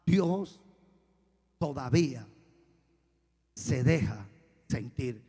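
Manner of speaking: low, word by word, building to loud; solemn emphatic preaching. Real, not acted. Preacher closing his testimony to brothers, solemn and building. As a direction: land each phrase with weight, pausing between.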